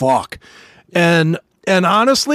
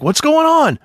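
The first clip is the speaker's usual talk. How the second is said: retold demand; 11 semitones higher than usual. Bursting into the general's office.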